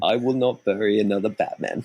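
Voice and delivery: put-on light emotional British accent; Michael Caine. Quoting the trip to co-hosts, in a light British accent. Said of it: "I was quoting the trip".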